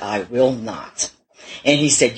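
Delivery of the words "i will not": defiant refusal. Retold or imitated. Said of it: "And I said".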